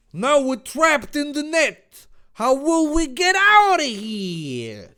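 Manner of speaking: high, loud panicky wail; Dave. Acted. Dave is trapped in the net, wailing high. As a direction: wail it out, stretching the last words. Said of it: "Dave asked".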